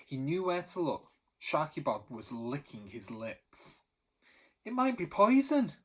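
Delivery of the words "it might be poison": much higher and louder, eagerly hopeful. Acted. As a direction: say it as if you want it to be true. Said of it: "Benny said hopefully".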